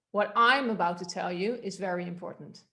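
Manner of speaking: "I'm" lifted and leaned on; stress on I. Shown as a demonstration. Coach shifting the focus for the class, stressed "I'm". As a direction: put the weight on "I'm". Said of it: "to the word I".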